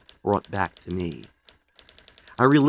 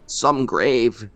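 bitterly; 2 semitones higher, 4 dB louder than usual. Acted. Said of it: "he said bitterly".

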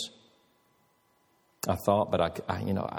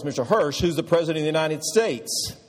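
put-on higher and louder, calling to a drowsy old man; raised voice; 8 semitones higher, 4 dB louder than usual. Nurse raising her voice to test Dad, loud and high. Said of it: "She raised her voice".

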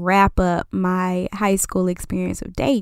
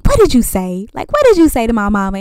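demanding; 2 semitones higher, 6 dB louder than usual. Retold or imitated. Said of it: "I'm like".

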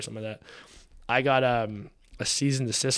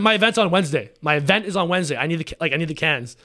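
much louder and higher, insisting hard on the date; frustrated yelling; 5 semitones higher, 8 dB louder, faster than usual. Retold or imitated. Pleading with the supplier about the event date, angry and loud. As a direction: hammer the deadline home, exasperated. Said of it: "I'm the most frustrated I've probably been in years".

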